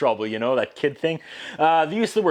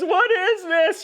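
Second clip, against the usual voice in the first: voicing the confused child actor, much higher and drawn out; high, slow childlike question; slower than usual. Child asking Baloo about his tears, high and slow. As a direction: ask it like a bewildered little boy, slowly and up high.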